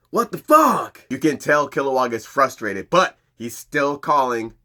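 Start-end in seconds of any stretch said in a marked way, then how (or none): 0.1-1.0 loud, high what the fuck; incredulous shout. Retold or imitated. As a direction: yell it in disbelief. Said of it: "They're just like".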